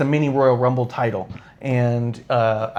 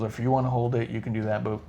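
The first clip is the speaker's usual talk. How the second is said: Randy Orton; 2 semitones lower, 8 dB quieter, faster than usual. Retold or imitated. Fan imitating a wrestler politely declining a gimmick, soft and casual. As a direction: let it trail down quiet and unbothered. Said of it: "He wasn't a dick about it".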